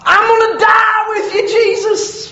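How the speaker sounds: swagger through the vow; mock boast. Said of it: "mocking Peter's boast".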